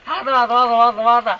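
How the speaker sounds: squeaky high-pitched game cry; high squeal. Pretend. Playful reply in game.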